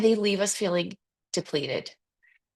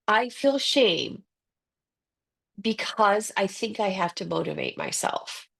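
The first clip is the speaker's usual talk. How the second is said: slow demo sentence. Shown as a demonstration. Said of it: "I'll give you the sentence".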